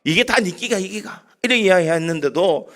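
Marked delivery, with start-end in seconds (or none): 0.0-1.2 the Gyeongsang line again at normal pace, no laugh; preacher repeating the Gyeongsang line for the joke; Gyeongsang accent. Retold or imitated. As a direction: restate the dialect words plainly to explain them. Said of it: "이게 무슨 말입니까?".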